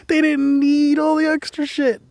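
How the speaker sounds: high, giggly voice; laughing. Real, not acted. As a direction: say it through laughter.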